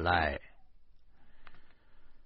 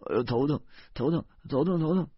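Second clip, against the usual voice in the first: higher, repeated whine of pain; pillow-muffled whining; 6 semitones higher, faster than usual. A narrator's reading. Husband afraid of being hit by wife, whining. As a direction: whine as if hiding under a pillow. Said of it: "用枕头捂着脑袋说".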